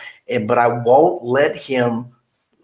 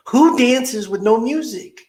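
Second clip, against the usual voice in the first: incredulous; 10 semitones higher, slower than usual. Retold or imitated. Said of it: "And I'm like".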